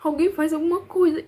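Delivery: imitated cry for help, held back; retold desperate cries. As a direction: beg passers-by, reliving the panic. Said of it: "eu gritava".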